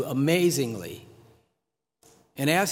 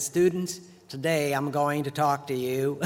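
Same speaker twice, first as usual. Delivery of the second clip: put-on Southern accent. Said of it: "he had a Southern accent".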